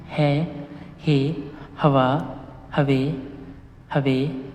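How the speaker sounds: ह, हाउ, हो each said apart with a pause; syllable drill. Shown as a demonstration. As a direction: read the row clearly for students to repeat. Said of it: "तो ये पहले number पे आ रहा है".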